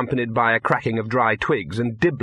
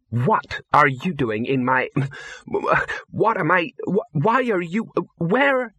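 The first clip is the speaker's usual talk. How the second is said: high, halting and increasingly flustered; flustered, unfamiliar voice; 6 semitones higher, slower than usual. A narrator's reading. Small figure confronting an intruder, flustered. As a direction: stammer slowly, climbing higher with each false start. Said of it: "changed gear".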